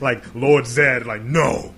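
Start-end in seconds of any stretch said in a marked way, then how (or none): 0.3-1.0 louder, punchy "Lord Zed"; loud mock call. Acted bark at brother. 1.2-1.7 mock loud no. Acted refusal in quote.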